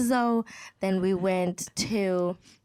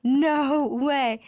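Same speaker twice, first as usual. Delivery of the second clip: loud, high no way with a laugh; can't believe the two lines; stunned disbelief; 4 semitones higher, 4 dB louder, much slower than usual. Retold or imitated. Reading the test result, loud and laughing. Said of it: "I'm like".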